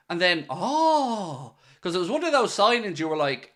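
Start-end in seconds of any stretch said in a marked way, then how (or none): 0.5-1.6 imitated realisation. Imitates everyone's dawning reaction.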